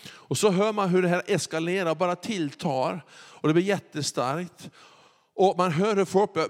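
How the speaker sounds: ordinary delivery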